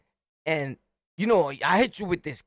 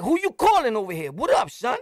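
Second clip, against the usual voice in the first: confrontational challenge; 4 semitones higher than usual. Retold or imitated. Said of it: "I'm like".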